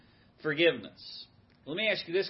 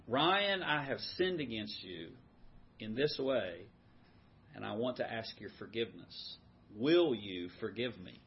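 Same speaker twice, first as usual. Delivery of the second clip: sincere request; 2 semitones lower than usual. Shown as a demonstration. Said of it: "go to someone ... and say".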